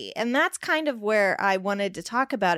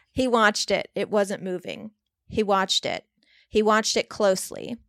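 story reading. A narrator's reading. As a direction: read the horror passage like an audiobook. Reads a Stephen King excerpt aloud.

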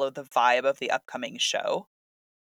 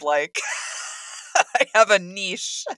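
awkward joy; 4 semitones higher, 4 dB louder than usual. Real, not acted. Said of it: "I'm just so excited".

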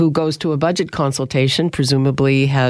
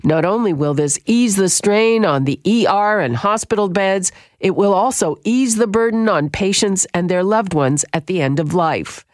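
steady, measured newscaster delivery; radio news read; 3 semitones higher than usual. Acted. Host reading a health news item to listeners, news read. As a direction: read it like the top of the hour bulletin.

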